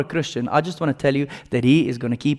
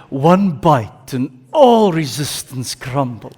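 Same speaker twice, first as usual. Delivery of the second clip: laughing slogan read; slower than usual. Retold or imitated. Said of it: "the slogan says".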